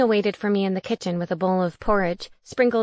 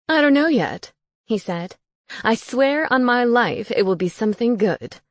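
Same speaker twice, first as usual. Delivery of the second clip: ghost roommate voice; 4 semitones higher, 4 dB louder than usual. Acted. Gareth eager.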